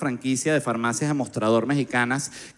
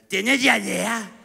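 higher, very slow strange voice; odd doctor; 5 semitones higher, much slower than usual. Retold or imitated. Strange doctor asks about diarrhea, slow high voice. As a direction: drag the question out oddly.

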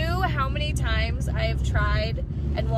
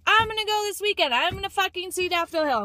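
excited plan; 6 semitones higher than usual. Retold or imitated. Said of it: "and I was like".

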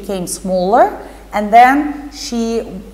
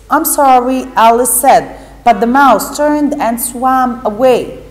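lively storybook reading voice, a bit louder; teacher reading a story to pupils; reading to children; 3 dB louder than usual. Acted. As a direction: read the story aloud to the class with expression. Teacher reads Alice story aloud.

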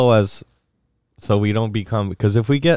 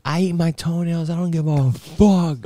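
higher-pitched, half-laughing bragging; mock defiant boast; 5 semitones higher than usual. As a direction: play at proudly confessing gross habits. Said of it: "I'm gonna be like".

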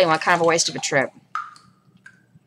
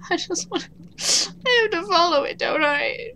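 whimpering; 5 semitones higher, 9 dB quieter than usual. Real, not acted. Scared to follow the creepy shadow.

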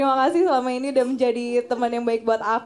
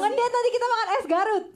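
mock lovey-dovey; 8 semitones higher than usual. Teasing mock-romantic date talk.

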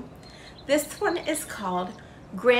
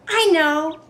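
cried happily; 5 semitones higher, 4 dB louder than usual. A narrator's reading. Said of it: "she cried happily".

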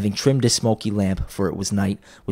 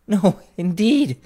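laughing Mrs Dilber; 11 semitones higher, slower than usual. A narrator's reading. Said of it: "said Missus Dilber, laughing".

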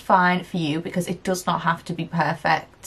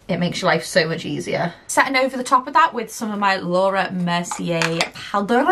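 a light, hammed-up French accent on a product line; lightly put-on French accent, half joking; mock French accent. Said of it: "That's my impression of the French accent".

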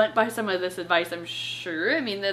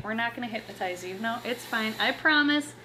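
soothing pet. Real, not acted. Soothing Rex the alligator.

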